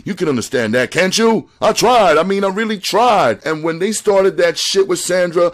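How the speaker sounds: high, loud, desperate pleading; pleading panic. A narrator's reading. George begging Chink at gunpoint, high frantic pleading. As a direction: beg and excuse yourself, rising into panic. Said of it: "George came out of the bedroom explaining".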